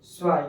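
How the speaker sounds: स्वाई clipped as German "zwei", a light ts at the start; short German स्वाई; German pronunciation. Shown as a demonstration. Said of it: "क्या बोलते हैं?".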